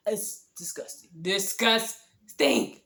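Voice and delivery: slow, stretched disgusting with a rising end; drawn-out disgust. Real, not acted. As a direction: savor how gross it was. Smelly crab ragu.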